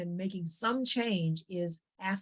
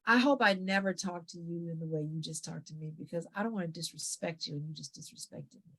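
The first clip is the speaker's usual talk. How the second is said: slow, calm and firm; 2 semitones lower, 4 dB quieter than usual. Shown as a demonstration. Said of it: "speaking slowly, pausing, looking them in the eye".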